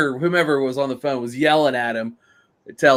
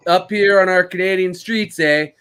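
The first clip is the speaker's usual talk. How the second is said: mock Canadian; 4 semitones higher than usual. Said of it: "Canada was probably like".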